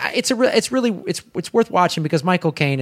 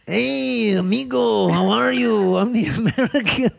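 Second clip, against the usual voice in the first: higher, Spanish-sounding attempt at an Asian accent; mock foreign accent, Mexican rather than Asian; badly faked Asian accent; 5 semitones higher, slower than usual. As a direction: do a hopelessly wrong Asian accent. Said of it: "Do the Asian accent".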